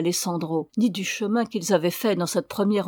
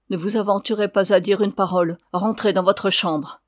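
ordre sévère; 4 dB louder than usual. Acted. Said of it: "cria la señora".

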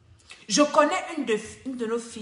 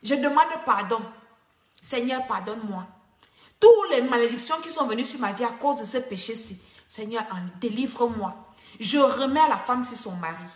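model prayer; 3 semitones lower than usual. Shown as a demonstration. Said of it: "dis Seigneur".

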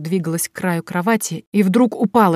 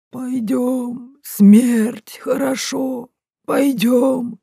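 eerie, higher, drawn-out ghost moan; ghostly moaning; 6 semitones higher, much slower than usual. A narrator's reading. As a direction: moan like a corpse calling her. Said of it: "замычала я и протянула к ней руки". (героиня изображает мертвеца и мычит)

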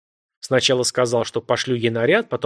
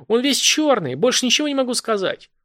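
high, frantic pleading; a terrified caller begging for help; a woman voiced high and desperate on the phone; panicked woman; 11 semitones higher, 3 dB louder than usual.

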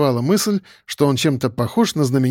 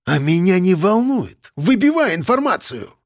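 angry order; 5 semitones higher than usual. A narrator's reading. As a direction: bark the order at him. Boss ordering angrily.

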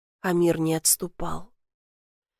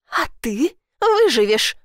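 sharp, higher, louder retort; snapping back; 5 semitones higher, 4 dB louder than usual. Acted. Sister snaps back at Elif, sharp and angry. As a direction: bite the words back at her. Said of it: "огрызнулась она".

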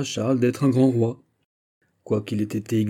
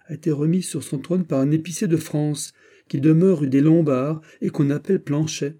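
heated d'Artagnan; 6 semitones higher than usual. A narrator's reading. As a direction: complain bitterly to his friend, rising. D'Artagnan mocks the restoration. (d'Artagnan qui s'emporte, plus aigu et plus fort)

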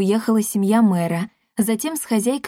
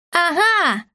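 put-on much higher, ringing triumphant girl's cry; 10 semitones higher than usual. A narrator's reading. Girl leaping onto the path at Дарина, ringing triumphantly. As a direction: ring out like a girl springing a trap. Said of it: "зазвенел девичий голос".

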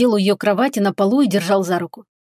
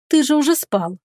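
mother's voice, higher and gentle; lightly voiced mother; tender reproach; 6 semitones higher than usual. A narrator's reading. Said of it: "ласково укорила его она".

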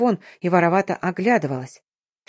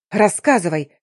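barked; 4 dB louder than usual. Acted. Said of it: "рявкнула я".

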